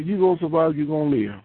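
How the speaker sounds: the same promise rattled off fast. Real, not acted. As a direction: say it again quickly, pressing on. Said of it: "I'm gonna say".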